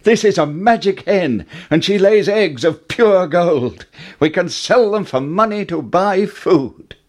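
put-on high, eager young boy; excited boy voice. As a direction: bubble over like a lucky boy. Jack voiced in story.

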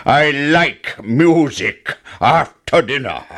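slow, lightly voiced giant; a hint of a contented giant.

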